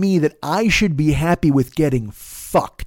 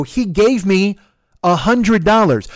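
raised, insistent angry voice; angry retort; 6 semitones higher, 4 dB louder, slower than usual. Retold or imitated. Driver disputing the fare with passenger, angry retort. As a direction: press the point, loud and indignant. Acted quarrel over the money.

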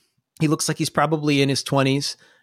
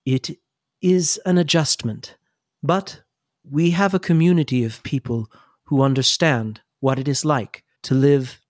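Sister Rose; 2 semitones lower than usual. Acted. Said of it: "Sister Rose says".

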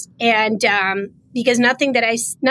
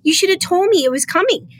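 imitated consoling, higher-pitched voice; retold solicitous tone, pitched up; 7 semitones higher than usual. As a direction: mimic her soothing reassurance. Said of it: "like, to console me".

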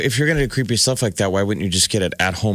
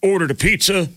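make-believe magazine letter writer; 3 semitones higher, slower than usual. Acted. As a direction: read out a made-up letter with drawn-out pauses.

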